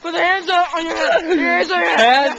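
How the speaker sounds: loud commanding bark; shouted orders. Pretend. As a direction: yell orders like a hostage-taker. Playing hostage-taker shouting orders.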